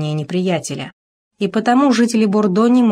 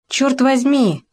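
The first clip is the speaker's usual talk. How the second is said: roaring; 7 semitones higher, slower than usual. A narrator's reading. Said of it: "заревел Кавиньяк".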